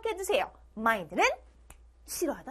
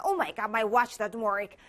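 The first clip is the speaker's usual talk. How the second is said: slow, careful English example; slow model line; 5 semitones lower, much slower than usual. Shown as a demonstration. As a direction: say each word slowly for learners. Modelling example sentence slowly. (천천히 또박또박)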